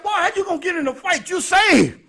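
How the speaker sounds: high, fast, scolding auntie. Retold or imitated. Auntie scolds nephew for fighting while saved, high and fast. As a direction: scold him like a churchgoing aunt. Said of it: "She said".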